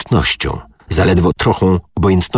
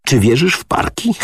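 easy mocking; 9 semitones higher than usual. A narrator's reading. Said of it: "swobodniejszym od niego, gdy rzekł".

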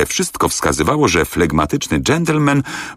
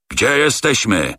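slow, higher, strangled angry demand; choking with rage; 7 semitones higher than usual. A narrator's reading. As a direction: force it out through fury. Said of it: "dusząc się z wściekłości".

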